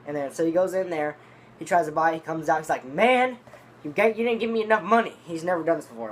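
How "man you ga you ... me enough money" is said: loud, high mock complaint; tripping out. Eugene back from trying to buy, imitated tripping out. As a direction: imitate an upset man's raised-voice accusation. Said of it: "he's, he's tripping out".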